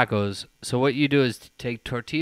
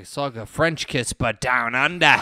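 put-on Australian punchline; Australian accent; 3 semitones lower than usual. Skateboarder explaining his kiss to women, Australian accent. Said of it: "Australian kiss".

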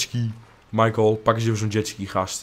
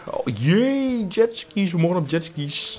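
high, swooping "yay"; squeal-cheer high, then ease down; excited cheer; 8 semitones higher, slower than usual. Real, not acted. Gamer finding out jetskis are allowed, high gleeful cheer.

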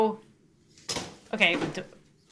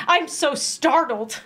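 deadpan fake startle; 3 semitones higher, slower than usual. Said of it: "That make you say".

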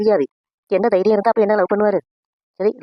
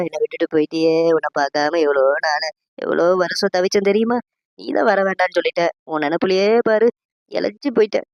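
overacted mourning. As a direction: wail for show over the dead husband. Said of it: "acting ஓவரா இருக்கே". (போலி ஒப்பாரி, மிகை நடிப்பு)

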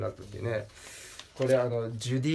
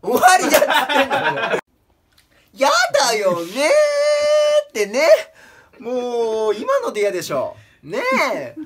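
much higher and louder, near-crying whine; unusual strained voice; 10 semitones higher, 8 dB louder than usual. Acted. Comedian closing his bit in an odd strained voice, much higher, louder, near tears. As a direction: push the voice up into a whimpering wail. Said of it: "普段使わない声出したから".

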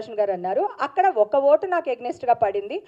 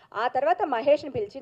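ordinary talk, nothing marked

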